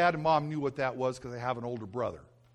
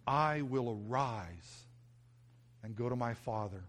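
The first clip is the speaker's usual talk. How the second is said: quiet inward vow; 3 semitones lower, 6 dB quieter than usual. Shown as a demonstration. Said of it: "Can you say that in your heart?".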